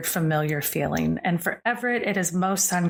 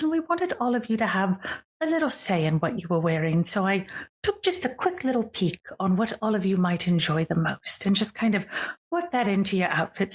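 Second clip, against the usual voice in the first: lightly voiced elegant hostess, a little theatrical; gracious grande dame; 3 semitones higher than usual. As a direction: play a poised lady addressing her darlings, lightly. Game master voices the elegant visitor.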